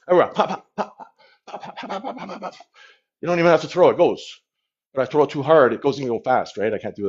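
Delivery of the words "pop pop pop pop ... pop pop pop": rapid puffed "pop" noises; quick, soft popping punch sounds; punch sound effects. Shown as a demonstration. Boxer showing viewers his loose jabs, puffed pops. Imitates punches while shadowboxing.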